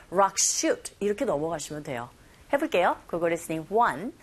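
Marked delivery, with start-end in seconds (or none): 0.1-0.9 "rock shoot" run together, the s merging into sh; linked consonants. Shown as a demonstration. Teacher models linking, "rock shoot" said as one joined phrase. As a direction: glide straight from "rock" into "shoot". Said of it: "스 겹자음이죠".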